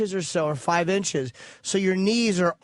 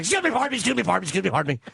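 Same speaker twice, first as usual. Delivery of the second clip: polite poop voice; much faster than usual. Pretend. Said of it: "and then it's like".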